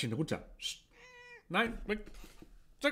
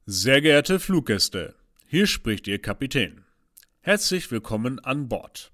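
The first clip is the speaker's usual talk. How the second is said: formal airline captain voice; pilot announcement. Acted. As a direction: announce it over the cabin speaker. (Flugkapitän-Durchsage)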